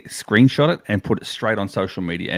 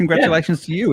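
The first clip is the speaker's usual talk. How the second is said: cheering crowd; 6 semitones higher, faster than usual. Pretend. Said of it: "And everyone says".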